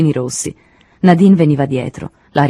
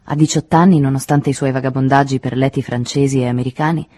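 usual speaking voice

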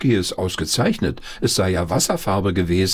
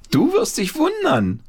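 a much higher voice, lightly calling out; excited call. Acted. Paul calls to Konrad on the tractor, mischievous. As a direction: tease the friend with a promise. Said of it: "rief Paul".

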